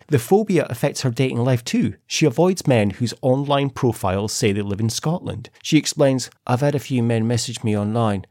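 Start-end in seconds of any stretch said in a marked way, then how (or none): 6.5-8.2 put-on English accent; English accent drifting towards a footballer's; David Beckham. Host quotes Kirsty on online dating, lightly Beckham-like English accent. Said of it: "why she sounds like David Beckham".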